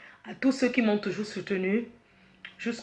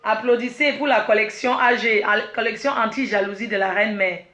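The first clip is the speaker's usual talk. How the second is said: rallying call; 5 dB louder than usual. Real, not acted. Calls the audience to applaud.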